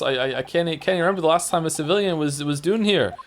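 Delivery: put-on shaky grasp of a Scottish accent; amateur Scottish accent; attempted Scottish accent. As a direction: try a Scottish prison governor, not quite managing it. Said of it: "I can't do a Scottish accent".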